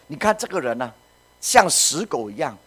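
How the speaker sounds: outraged on the king's behalf; indignant. Acted. Acts Abishai indignant to David.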